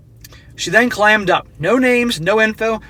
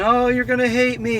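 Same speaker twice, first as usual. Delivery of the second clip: higher, whiny put-on sob voice; hammed-up weepy plea; mock tearful girlfriend; 5 semitones higher than usual. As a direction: imitate fake crocodile tears. Mocking crying girlfriend's excuses.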